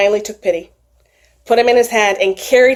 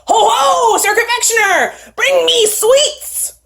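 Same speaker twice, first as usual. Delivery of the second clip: tiny bee knight calling; 12 semitones higher, slower than usual. Acted.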